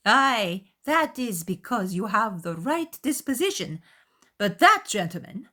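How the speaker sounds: loud, high jab; pointed mother. A narrator's reading. Mother jabbing at Darcy, loud and high. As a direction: needle the proud guest. Mrs. Bennet voiced.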